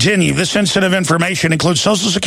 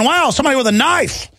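mock unbothered reaction; 7 semitones higher than usual. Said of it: "instead of going".

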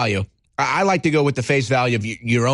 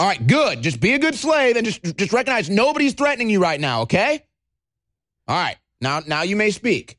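condescending bully granting permission; mock menacing enforcer; 4 semitones higher than usual. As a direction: play the satisfied captor, still insistent.

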